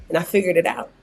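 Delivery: low, soft, halting mock-solemn voice; hushed mock-motivational speech, breaking into a laugh at the end; mock inspirational testimony. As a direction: deliver a hammed-up testimony with long dramatic pauses. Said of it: "I can't stand people who talk like this".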